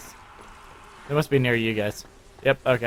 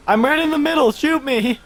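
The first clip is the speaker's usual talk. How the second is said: laughing taunt; 12 semitones higher than usual. Real, not acted.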